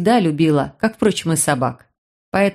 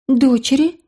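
higher puzzled question; surprised girl; 6 semitones higher than usual. Acted. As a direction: catch on the word, rising. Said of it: "удивилась девушка".

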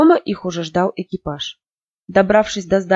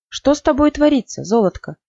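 gentle question; 6 semitones higher than usual. A narrator's reading. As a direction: ask her daughter gently. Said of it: "мягко спросила она девочку". (нежный материнский вопрос)

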